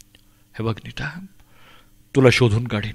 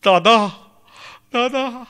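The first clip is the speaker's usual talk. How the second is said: put-on high imagined cry of a frightened child; acted high-pitched plea; child's scream; 9 semitones higher, slower than usual. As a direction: cry out for help as the lost girl. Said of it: "तू किंचाळशील".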